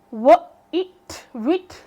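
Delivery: white broken into "व" and "it", then "wit"; wrong short-i reading. Shown as a demonstration. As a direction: sound out व, it, then blend as "wit". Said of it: "क्यों नहीं पढ़ रहे हम".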